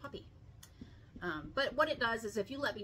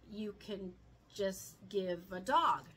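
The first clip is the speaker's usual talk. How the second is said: laughing; 3 dB louder, slower than usual. Real, not acted. Joking aside about gifting dogs.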